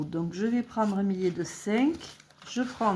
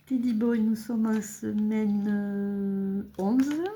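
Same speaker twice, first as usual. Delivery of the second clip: amused English accent, just after a laugh; playful English pronunciation of the name; 4 dB louder, slower than usual. Shown as a demonstration. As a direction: show off a mock-proud English accent. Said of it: "Vous avez vu mon bel accent anglais?".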